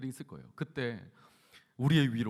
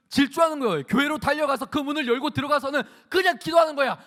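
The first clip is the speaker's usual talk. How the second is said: high, loud, driving narration; forceful preaching; 10 semitones higher, 10 dB louder than usual. Acted. Preacher telling of Hannah rushing to pray, forceful preaching. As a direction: race through the scene at full voice.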